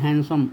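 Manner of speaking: "हैंडसम" with no d sound, as "hansam"; silent D. Shown as a demonstration. Teacher showing students the silent D in handsome, D left out. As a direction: say "हैंडसम" as han-sum, dropping the D. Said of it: "डी नहीं बोला जाता है".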